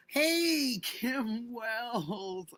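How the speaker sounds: loud, high burst of welcome; excited greeting. Real, not acted. Streamer thrilled to greet a supporter, loud and high. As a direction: call out the name with delight.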